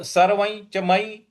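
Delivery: सर्वं linked to च through ञ; palatal nasal before च. Shown as a demonstration. Teacher repeating for students, सर्वं with ञ. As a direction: intone सर्वं च मयि with the "ny" nasal. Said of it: "इस प्रकार से बोलना है".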